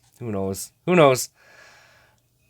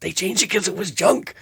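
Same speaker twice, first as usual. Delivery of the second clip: laughing reply; 5 semitones higher than usual. Retold or imitated. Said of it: "And I'd be like".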